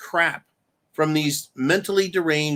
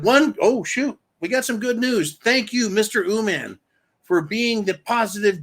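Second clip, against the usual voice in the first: reading viewer message; 6 semitones higher than usual. Retold or imitated. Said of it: "He said".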